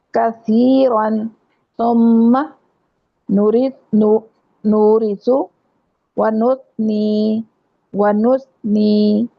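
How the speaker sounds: کثیرن and ونثنی with a soft tha and no whistle. Shown as a demonstration. Teacher demonstrating the tha in words for her class. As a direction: stretch each word slowly with no hiss. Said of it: "میری آواز اس کے ساتھ نہیں آ رہی".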